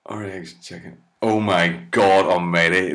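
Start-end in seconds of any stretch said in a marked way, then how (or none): 1.2-2.9 loud appalled outburst; shocked exclaim. Real, not acted. Comic reading absurd headlines, loud shocked outburst. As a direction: cry out in disbelief.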